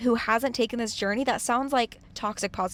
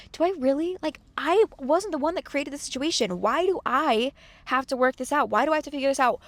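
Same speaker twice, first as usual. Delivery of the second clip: whiny victim complaining; 3 semitones higher than usual. Retold or imitated. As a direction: complain like life is unfair to you. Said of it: "And that's the victim mentality".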